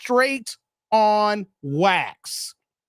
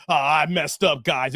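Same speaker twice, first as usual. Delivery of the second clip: much lower, meek mock sorry; mock apology; 10 semitones lower than usual. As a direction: mumble it out like a sheepish apology. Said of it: "talking about".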